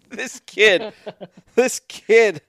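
laughing disbelief. Real, not acted. Host amused by the returning kid, laughing disbelief.

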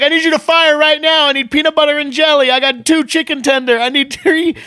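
high, loud chef bark; mock kitchen yell. Epstein's chef yelling orders, high loud mock shout. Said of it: "And he's like yelling".

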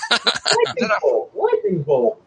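high-pitched, half-voiced mock yell; mock screaming. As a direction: imitate a silly spell call, stretched out. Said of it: "just screaming".

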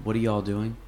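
tossed-off quick question; quick casual y'all. Shown as a demonstration. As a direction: run y'all together fast. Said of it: "if I say it quick like that".

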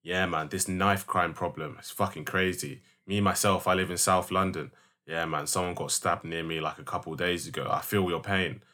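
lightly voiced, hushed fake sympathy; mimicking Donnie. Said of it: "he goes".

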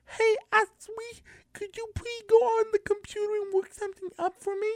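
sweetly begging big sister; little kid voice. Retold or imitated. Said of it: "I asked my sissy".

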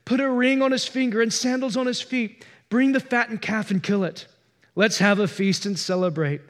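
urgent joy, hurrying the servants; eager father. Acted. Father ordering servants to fetch the robe, excited call. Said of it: "But the father said to his servants".

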